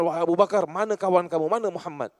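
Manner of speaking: loud demanding call to Abu Bakar; mock screaming demand. Angry wife yelling at Abu Bakar for Muhammad, mock shouting. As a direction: yell for him like an enraged woman. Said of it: "Dia terpekik terlolong".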